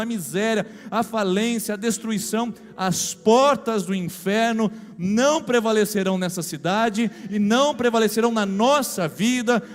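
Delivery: rising, forceful preacher's proclamation; fervent preaching. Acted. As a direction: declare it like a revival preacher. Pastor declares against city's sins.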